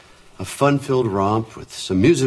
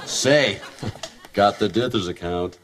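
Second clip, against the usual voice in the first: exaggerated sitcom dad; slower than usual. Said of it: "are you sure you want it that exaggerated".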